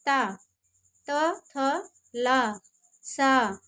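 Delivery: ता, त, थ, सा said with the tongue at the teeth; dental sounds demo. Shown as a demonstration. Teacher models dental sounds for the class, one by one. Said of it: "जैसे".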